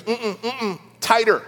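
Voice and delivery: lightly imitated little girl insisting; hummed refusal, then a small demanding push; daughter. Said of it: "My daughter Ella, who's nine".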